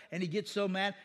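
normal talking voice

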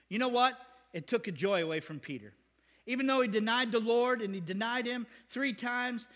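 ordinary talk

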